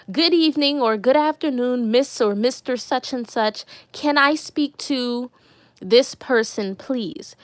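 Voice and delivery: measured, courteous phone greeting; polite caller. Shown as a demonstration. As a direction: demonstrate good phone manners. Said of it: "you're just polite when you call".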